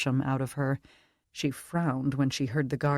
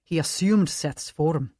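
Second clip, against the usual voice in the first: put-on Scottish accent. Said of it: "Scottish accent".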